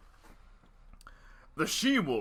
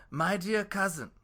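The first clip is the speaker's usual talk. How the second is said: a hint of a sly fox; 6 semitones higher than usual. Fox character voiced.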